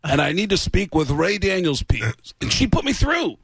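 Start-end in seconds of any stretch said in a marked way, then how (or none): 0.0-2.3 lightly voiced rock star, slow and self-important; a hint of a rock star pulling rank; rock star impression. Prank caller to a manager's office, lightly voicing a rock star. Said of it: "this is a famous rock star".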